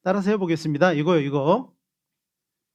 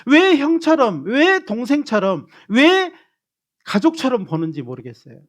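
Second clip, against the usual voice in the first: much higher, loud rising cry of frustration; exasperated outcry; 7 semitones higher, 6 dB louder than usual. Real, not acted. Pastor pleads with the congregation about family ties, rising in frustrated outcry. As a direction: stretch it, pleading in disbelief.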